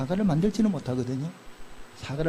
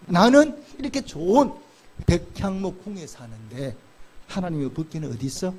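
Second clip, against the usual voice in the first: David's musing. Retold or imitated. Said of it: "이렇게 고백하는 거예요".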